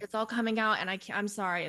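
mock tearful apology. Crying client telling the coach it's coming out, mock apologetic. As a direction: imitate an overwhelmed client saying sorry. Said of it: "They're always apologizing".

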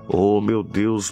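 ordinary talk, nothing marked

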